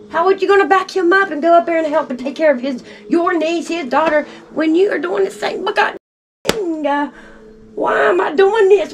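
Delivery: a mother begging her son for an answer, distraught; distraught pleading. Real, not acted. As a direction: pitch climbing high, pleading in anguish.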